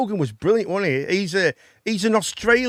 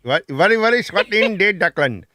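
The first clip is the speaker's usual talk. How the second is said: put-on Indian accent. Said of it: "It's an accent".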